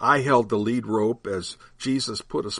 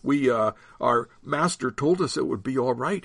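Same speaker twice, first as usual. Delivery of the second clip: stammered; 2 semitones higher than usual. Acted. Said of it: "he stammered".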